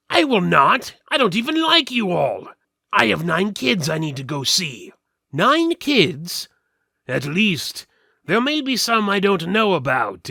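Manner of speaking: a caged skeleton talking big to strangers. Acted. Skeleton pleads about his kids.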